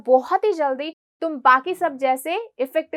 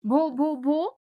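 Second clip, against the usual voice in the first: mild stammer; much slower than usual. Retold or imitated. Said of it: "she began to stammer".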